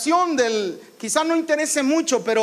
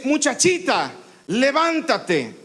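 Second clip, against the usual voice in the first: gentle command; slower than usual. Shown as a demonstration. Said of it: "le dice algo así".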